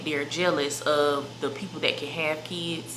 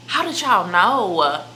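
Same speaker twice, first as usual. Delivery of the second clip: slow, a touch louder, feigned astonishment; mock surprise; 3 semitones higher, 5 dB louder, slower than usual. Teasing viewers about pregnancy rumors, in mock surprise. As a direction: act shocked that they guessed.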